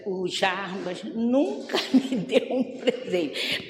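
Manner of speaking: slow, soft mock complaint breaking into a laugh; laughing while retelling mother's old grumble. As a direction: quote her through a chuckle. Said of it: "no final ela".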